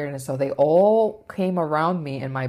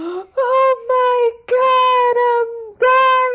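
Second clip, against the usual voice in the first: shrill, very loud, very high, very slow drawn-out scream; 8 dB louder than usual. Retelling being walked outside by helpers, retelling own scream. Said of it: "I scream so loud".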